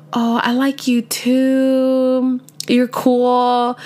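imitating the guy. Voicing the guy's lukewarm reply.

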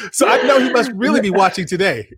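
said through a laugh; chuckling while teasing. Real, not acted. Teasing the guest about the son watching, laughing.

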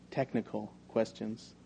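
hushed, slow aside; whisper. A narrator's reading. Salesman leans close to his boss, whispering. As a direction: lean in and ask it softly, drawn out. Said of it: "lean close to my boss and whisper".

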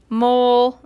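first stab at a cat's cry, loud; cat meow. A narrator's reading. Reader's first try at the cat's cry, meowing. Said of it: "I think that was like".

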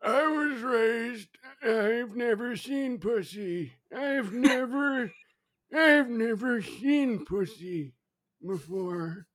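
put-on old-timey voice. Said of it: "let me try on some voices".

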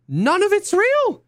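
high, slow disbelieving cry; overwhelmed. Real, not acted. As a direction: stretch it out high in despair. Overwhelmed rant peak.

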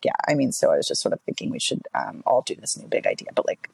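low creaky vocal fry voice; fry it out, low and unsure. Shown as a demonstration. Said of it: "this is what vocal fry is".

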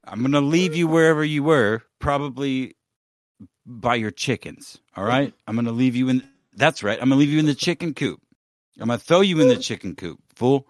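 taunting Sammy with the chicken coop; mock threat. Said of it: "I'm real mad".

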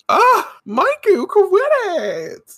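loud, high, drawn-out fangirl cry; gushing squeal. Real, not acted. Host melting at Maiku giving his stone, fangirl squeal. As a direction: squeal it slowly, overwhelmed by sweetness.

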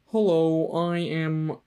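half-hearted frog puppet voice; a lightly put-on, badly faked puppet impression; bad Kermit. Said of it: "that's my really bad Kermit impression".

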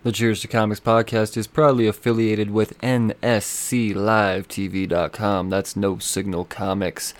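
low, measured promo read; steady, slightly subdued plug delivery; sponsor read. Acted. Host reading an affiliate plug to listeners, measured promo read.

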